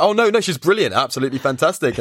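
mock gushing, starting high then quickly dropping; hasty backtracking. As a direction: imitate someone hurriedly changing their story. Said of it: "he changes his script".

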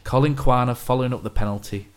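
flat, unexcited commentary read; deadpan. Shown as a demonstration. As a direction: read the goal call flatly. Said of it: "read them with a deadpan voice".

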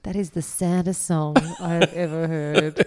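slow, laughing verdict; laughing at the saddest song. Real, not acted.

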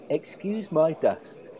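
slow, deliberate epitaph; epitaph quote. Retold or imitated. Host quoting the epitaph, slowly and deliberately. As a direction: spell it out slowly for effect. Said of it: "her own epitaph should be".

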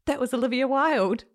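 starstruck. Retold or imitated. To her boyfriend after passing the star, thrilled. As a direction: blurt it out star-struck.

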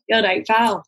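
lightly put-on Glaswegian; a hint of exaggerated Glaswegian; Glaswegian accent. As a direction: slip into a touch of Glasgow patter. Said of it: "I start going into ... really Glaswegian".

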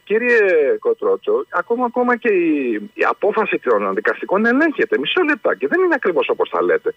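high, prissy imitation of a politician; mock the minister's evasive answer. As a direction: caller mocking the politician, high voice. Caller imitates minister's reply.

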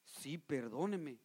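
soft, slow humble confession; admitting fault to a brother, soft and slow; humble apology. Acted. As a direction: own up to it quietly and slowly. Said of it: "¿qué tiene que hacer uno?".

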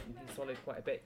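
ordinary talk

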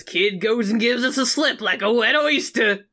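hammed-up New York accent. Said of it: "I just gave him a New York accent".

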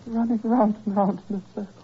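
rising, frantic fever talk; delirious raving. Acted.

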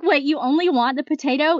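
put-on waitress's puzzled question, Russian accent. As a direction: imitate a baffled Russian waitress. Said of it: "in her Russian accent".

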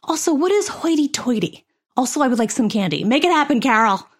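a hint of a child challenging a parent; seven-year-old. Seven-year-old questioning dad's belief about rich people, lightly voiced child. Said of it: "seven-year-old you ... be like".

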